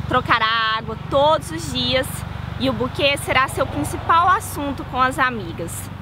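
calm, measured poetry recital; poem reading. Shown as a demonstration. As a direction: read the poem gently, savoring each line. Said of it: "eu quis vir aqui pra ler esse poema". (leitura de poema)

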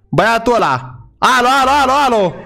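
high-pitched excited shouts; excited calling out. Pretend. Player to viewers on spotting a car, excited high calling. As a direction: call out in alarmed excitement.

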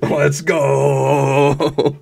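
loud, high, drawn-out victory cry; triumphant shout. Real, not acted. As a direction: yell it in real celebration, stretching the last word. Celebrates beating the boss.

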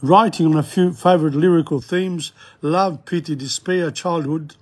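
measured read-aloud, phrases opening firmly; formal, articulated reading of an introduction; formal literary reading. Real, not acted. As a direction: read out a poet's biography like a lecturer.

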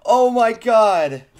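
stubbed toe. Real, not acted. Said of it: "I stuck my toe".

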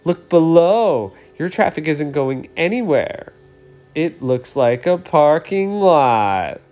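mock-proud gloat at the others; gloating green light. Green light boasting over the traffic jam, smug.

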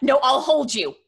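shouted no, no; frantic refusal. Acted. Florence shouting to stop Kay going out. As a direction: cry it out in panic. Holding friend back, shouting.

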